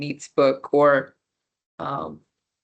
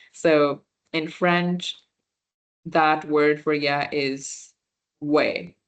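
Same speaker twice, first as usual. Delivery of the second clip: slow explanation; slower than usual. Shown as a demonstration. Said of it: "makes you sound a little more native".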